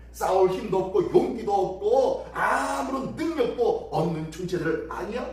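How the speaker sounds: lightly acted scorn; mocking put-down. Envoy belittles Judah's fighting power, mild mockery. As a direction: belittle them with a rhetorical question. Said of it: "라고 조롱합니다".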